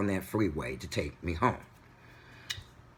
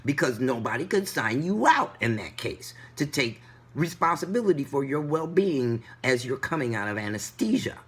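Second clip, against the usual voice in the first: angry complaint; 6 semitones higher than usual. Retold or imitated. Arguing angrily with the driver.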